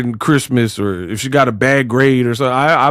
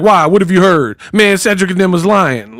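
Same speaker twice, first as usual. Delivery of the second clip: mildly defensive comic protest, pitched up; mock defensive; 5 semitones higher than usual. Imitating a sitcom brother revealing too much, mock defensive. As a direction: blurt a hint of guilty over-explaining. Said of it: "She get that defensive".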